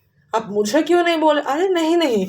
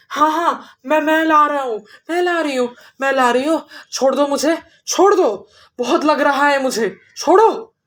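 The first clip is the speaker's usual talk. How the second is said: begging witch; 3 semitones higher than usual. Acted. Burning witch begs for release.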